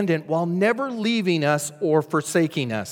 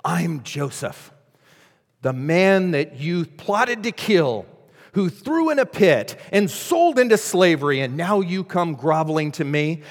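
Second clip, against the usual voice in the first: movie hero revenge speech. Pretend. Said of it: "His voice lowers".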